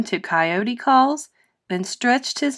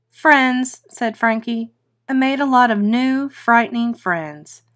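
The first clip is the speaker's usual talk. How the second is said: happy; 3 semitones higher, 3 dB louder than usual. Acted. Happy son answers.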